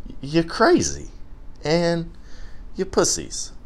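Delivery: worked-up mock outrage; indignant rant. Real, not acted. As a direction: vent at the gym like it's personal. Ranting about gym hours.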